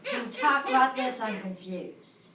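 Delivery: grudging, sullen question; rude tone. Shown as a demonstration. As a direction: mutter the confusion, annoyed. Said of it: "The first one".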